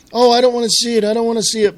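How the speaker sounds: hammed-up "I don't wanna see it"; mock squeamish driver. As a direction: play the fake-squeamish gawker. Mock gawker at accident scene.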